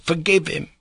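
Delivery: high, imploring little phrase; the captain echoing his boy's high plea; child's cry. Retold or imitated. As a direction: beg mercy as the small son. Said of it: "he actually cried".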